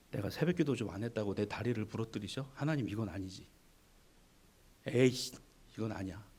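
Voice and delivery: low, soft grumble at God; muttered resentful complaint; grumbling complaint. Pretend. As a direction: sulk like a put-out believer. Griping believer voiced in sermon.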